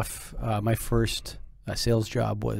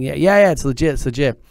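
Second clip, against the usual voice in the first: reassuring clerk; 3 semitones higher, 6 dB louder than usual. Retold or imitated.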